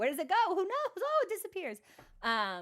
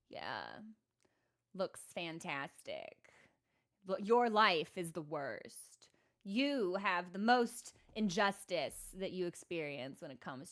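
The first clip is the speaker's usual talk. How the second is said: sarcastic deadpan; 5 semitones lower than usual. Pretend. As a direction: say it with exaggerated fake pity. Sarcastic mock sympathy to viewer.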